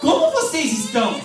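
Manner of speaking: reading the line through a laugh; amused, giggling read; laughing quote. Retold or imitated. Reading the friend's message to the church, laughing.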